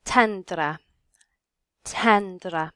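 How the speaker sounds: "Tendra" in Middle English with a short E; careful model of "Tendra", short first E. Shown as a demonstration. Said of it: "down to our short E".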